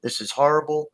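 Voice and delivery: a touch of a whiny complainer; complaining people. Retold or imitated. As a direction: imitate someone moaning about their life. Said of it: "They'll say".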